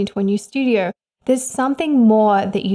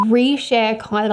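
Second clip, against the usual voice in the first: tongue just bitten, word cut off; slower than usual. Real, not acted. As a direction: stumble after biting tongue. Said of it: "I just bit my tongue".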